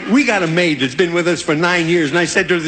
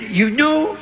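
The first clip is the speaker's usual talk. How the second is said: higher pinched voice breaking into a shout; stuffy-nose elephant voice; 6 semitones higher, slower than usual. Acted. Elephant breaking off his line, pinched and higher. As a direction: squeeze it through the nose, then blurt. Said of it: "wrinkle up my nose to talk like this".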